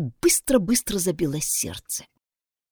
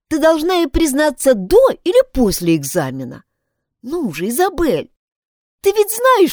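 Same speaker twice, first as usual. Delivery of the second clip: высокий девичий голос, настойчиво советует; убеждает подругу поступить честно, голос выше обычного; girl advising; 5 semitones higher than usual. Acted. Pat voiced, advising. (Пат уговаривает Изабель признаться, высоким девичьим голосом)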